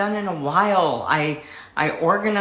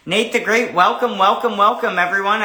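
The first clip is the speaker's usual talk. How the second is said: cheery welcome; 5 semitones higher, 5 dB louder than usual. Real, not acted. Greets a viewer joining the live.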